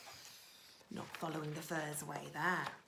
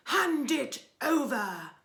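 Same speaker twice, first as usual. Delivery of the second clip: loud, scornful highway rat; loud, sneering robber rat; ordering rat; 2 semitones higher, 9 dB louder than usual. Acted. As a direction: bark the orders like a bully rat. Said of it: "he ordered".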